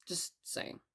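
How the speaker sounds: breathy under-the-breath aside, half to herself; whispered aside. Real, not acted. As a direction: slip it in like a sheepish confession. Sheepish aside after blaming Joe.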